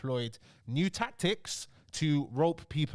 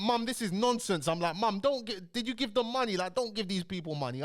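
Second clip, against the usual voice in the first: raised-pitch retold pleading with mum; exasperated protest; 5 semitones higher than usual. Young son warning mum about the scam, exasperated.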